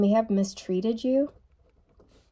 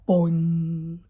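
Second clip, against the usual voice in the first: boing imitation; 3 semitones lower, 3 dB louder than usual. Shown as a demonstration. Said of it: "the way that it sounded".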